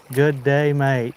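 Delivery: put-on a light, half-hearted Australian accent; barely-there Australian accent greeting the viewer. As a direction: toss off a quick mock Australian good day, mate. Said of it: "And my best accent".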